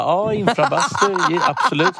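a hammed-up trend follower; mock enthusiast. Friend mocking trendy people, imitating them. Mocking what everyone says.

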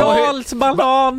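loud, high, drawn-out exclamation; mock outcry. Friend reacting to gamer being caught, mock outcry. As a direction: cry it out slowly in mock dismay.

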